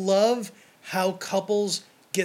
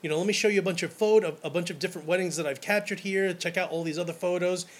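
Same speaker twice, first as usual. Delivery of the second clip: delighted surprise; 2 semitones higher, faster than usual. Retold or imitated. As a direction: burst out like you can't believe your luck. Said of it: "I was like".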